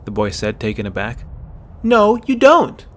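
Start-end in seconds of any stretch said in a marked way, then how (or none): 1.8-2.9 slow, loud, high retort; angry denial. Acted. Girl denies he cares, loud slow retort. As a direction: spit it back slowly and loudly.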